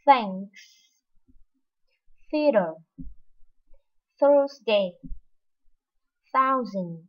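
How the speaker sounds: Thanks, Thursday, Think with a clear th; English th words. Shown as a demonstration. Teacher models th words for students. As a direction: model each th word. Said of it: "từ đầu tiên".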